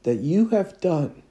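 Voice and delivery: the Spirit naming the sin that divides; Holy Spirit's voice. Retold or imitated. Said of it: "he is saying".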